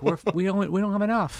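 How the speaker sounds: goat voice. Pretend. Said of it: "they were like".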